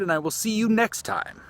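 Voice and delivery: high, lifted sign-off left hanging; unfinished sign-off. Real, not acted. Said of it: "the way that I did because I was gonna finish".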